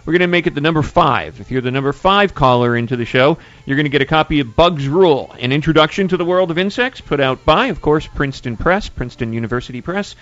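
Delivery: upbeat radio host plug; radio contest promo. Acted. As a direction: pitch the giveaway to listeners.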